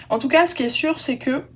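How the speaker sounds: talking through hiccups. Real, not acted. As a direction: caught by a hiccup mid-sentence. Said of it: "pardon, j'ai le hoquet".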